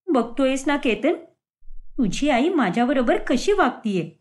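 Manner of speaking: lightly acted aggrieved complaint; hurt daughter-in-law. Swati complains to Ketan about his mother, mildly aggrieved. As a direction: plead your case, a touch wounded.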